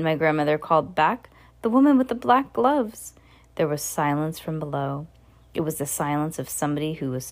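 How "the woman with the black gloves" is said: shouted. A narrator's reading. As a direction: shout it down to her. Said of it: "I shouted".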